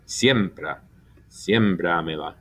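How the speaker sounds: Siembra and Siembra me la, both stressed on SIEM. Shown as a demonstration. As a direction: keep SIEM strong in Siembra, me la trailing. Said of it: "sound the same as it always would".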